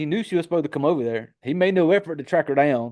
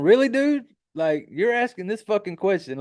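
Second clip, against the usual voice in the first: exasperated disbelief; 6 semitones higher than usual. Retold or imitated. Retelling his own reaction to Clark's question, incredulous. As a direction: pitch the disbelief up at dumb Clark, mock outrage.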